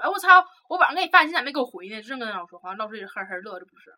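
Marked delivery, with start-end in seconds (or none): 0.0-2.0 athlete calling out. Retold or imitated. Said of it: "体育生就喊说".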